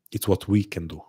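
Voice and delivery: "we" picked out with emphasis; stress on WE. Real, not acted. Host sharing credit with listeners, stress on "we". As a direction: lean on "we" to set it against "I". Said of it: "not what I can do".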